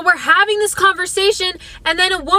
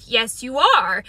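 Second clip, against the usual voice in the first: put-on old man, slow; 5 semitones lower, slower than usual. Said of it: "And he said".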